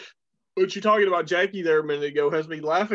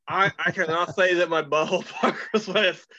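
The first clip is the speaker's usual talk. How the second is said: laughing through words. Real, not acted. Laughing at crude question.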